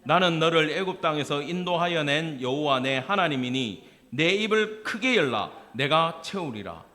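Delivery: steady unison recitation; congregational reading. Shown as a demonstration. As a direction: read scripture aloud together. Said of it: "같이 읽읍시다".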